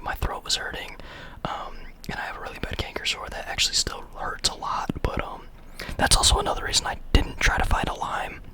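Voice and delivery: soft ASMR whisper. Real, not acted. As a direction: whisper close to the mic. Whispers throughout.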